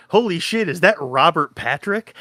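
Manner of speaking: high, thrilled surprise at a familiar face; excited recognition. Retold or imitated. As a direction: blurt it out, pitch jumping up on holy. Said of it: "I go".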